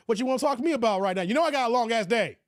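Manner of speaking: mildly exasperated husband; T Orlando. Acted. Tired husband answering his wife, mildly exasperated. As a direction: grumble impatiently about the long day. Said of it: "Here's my impersonation of T Orlando".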